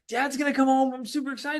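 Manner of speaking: mock excitement. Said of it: "You're like".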